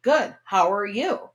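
mock scripted reply; stilted dialogue. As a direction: answer like an actor waiting for each cue. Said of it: "that's not real talking".

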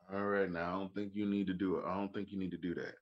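fast, low-key caution; a hint of a calm threat; mild Southern warning. A Southern man cautioning before trouble. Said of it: "if you hear somebody say".

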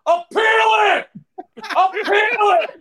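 high, loud yelled appeal; yelling appeal. Retold or imitated. Announcer yelling out the window for an appeal. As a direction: bellow it out the window. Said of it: "he's just yelling".

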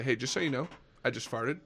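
quiet confession. Retold or imitated. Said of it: "I would say".

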